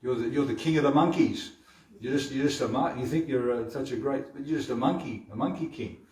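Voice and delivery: high, playful teasing of a little rascal; a mother mocking her boy's airs. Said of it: "starts talking about".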